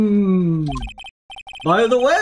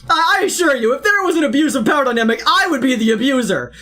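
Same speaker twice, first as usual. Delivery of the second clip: a touch higher, fast, haughty assurance; friend's boast mocked, a hint higher and fast; mock Mac impression; 4 semitones higher, faster than usual. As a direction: lightly parody a friend's boast. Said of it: "Mac would come out like".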